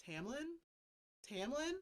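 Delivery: small, high, questioning call; soft and lifted, as if just waking; mock dazed innocence. Feyre faking a broken spell to Tamlin, mock innocent. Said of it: "she acts as if, like, a spell is broken".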